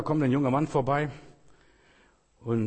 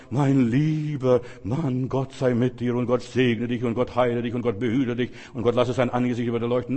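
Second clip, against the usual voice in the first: mock prophet blessing. Prophet greeting the man with stock blessings, mock pious. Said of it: "Nicht, dass der Prophet rauskommt und sagt".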